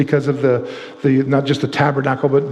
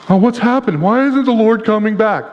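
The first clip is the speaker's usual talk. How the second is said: sniveling whine; 5 semitones higher than usual. Retold or imitated. Preacher mocking impatient people with a whine. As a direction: imitate the people sniveling at God. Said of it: "Stop sniveling".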